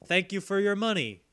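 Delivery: deliberate, spaced-out verse reading; mock poem recital. Host reads a poem to their one patron, mock-solemn. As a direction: recite a silly thank-you poem, dropping at the end. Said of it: "I wrote a poem for you".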